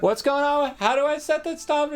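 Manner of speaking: high-pitched muddled calling; overheard fretting. Acted. Woman rummaging with the stone still on, fretting. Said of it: "you hear it off the".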